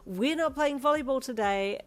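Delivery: put-on loud, firm call to the kids; firm teacher voice. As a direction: stress on not. Teacher settling excited kids.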